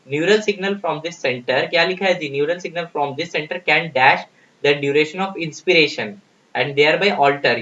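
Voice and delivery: slow, deliberate reading of an exam question. Acted. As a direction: read each word out slowly for the class. Rereads the statement slowly.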